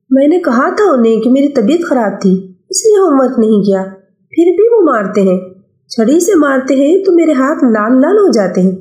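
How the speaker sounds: a hint of an upset child shouting back. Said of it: "وہ بلند آواز میں غصے سے کہہ رہا تھا".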